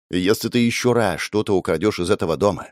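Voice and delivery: ordinary delivery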